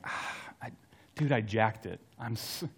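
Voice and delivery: a half-whispered, ashamed aside to himself; ashamed mutter. Retold or imitated. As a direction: mumble it like you're hiding in the truck. Ashamed inner voice in truck.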